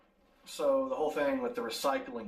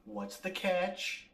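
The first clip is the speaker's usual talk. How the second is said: very slow, higher-pitched query; drawn-out question; 4 semitones higher, much slower than usual. Acted. Host presses the demon on his offer, drawn out. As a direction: stretch each word out, pitched up.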